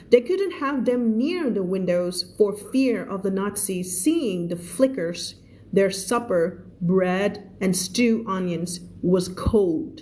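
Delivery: slow, measured English reading; story read-aloud. Acted. Teacher reading a story to English learners, slow read-aloud.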